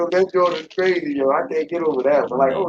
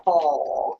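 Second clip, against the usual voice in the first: cooing pity, higher pitched; mock sad baby talk; 4 semitones higher, slower than usual. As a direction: tease like talking to a sad bird. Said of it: "he sounded so sad".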